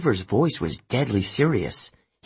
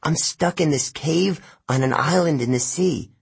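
higher, fretful character voice; anxious Grover; 5 semitones higher than usual. Acted. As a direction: play a stranded friend pleading for help.

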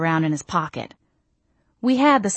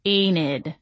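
grimacing. Acted. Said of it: "I said, grimacing".

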